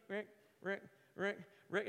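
short, quiet imitated ski scrapes; crunching snow noises. Skier imitating snow mashing under turning skis, crunching noises. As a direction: mimic skis crunching through snow, softly.

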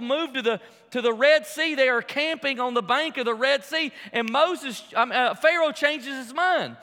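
sermon in full swing; full-force preaching. Real, not acted. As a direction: preach it out to the whole room.

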